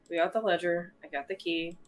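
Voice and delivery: whispering. Acted. Player whispers to Xavier about the ledger and key, hushed. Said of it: "she's gonna whisper to".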